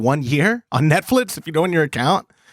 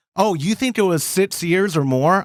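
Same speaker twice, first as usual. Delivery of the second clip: plain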